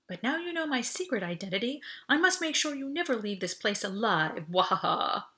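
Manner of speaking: hammed-up evil villain; playful supervillain threat; mock villain.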